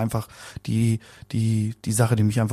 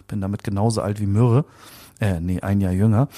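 normal talking voice

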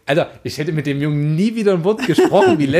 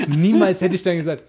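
normal talking voice

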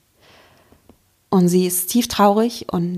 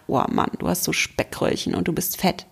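whispered, softer, lower mock critic; inner critic voice; 4 semitones lower, 5 dB quieter than usual. Coach voicing the listener's inner critic in a whispered mock sneer. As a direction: hiss it like a nasty inner voice. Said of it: "der innere Kritiker sich anschaltet und dir sagt".

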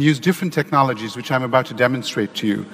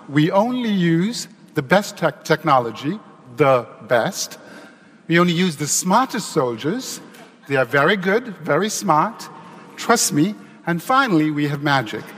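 sarcastic. Acted. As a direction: sell it with exaggerated pride. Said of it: "I'm being a little sarcastic here".

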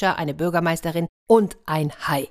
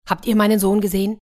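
quick, louder, higher worried asking; urgent question; 4 semitones higher, 5 dB louder, faster than usual. Acted. Villager runs up looking for his son, urgent question. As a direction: ask in haste, searching for someone.

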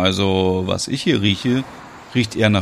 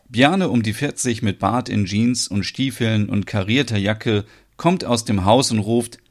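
story narration. A narrator's reading. Narrator introduces Bjarne.

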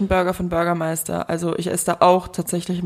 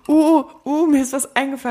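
1 excited; 7 semitones higher, 3 dB louder than usual. Real, not acted. Plötzlicher Einfall mitten im Gespräch.

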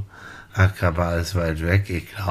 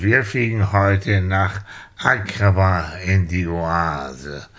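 airline pilot announcement. Pretend. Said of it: "hier spricht Ihr Flugkapitän".

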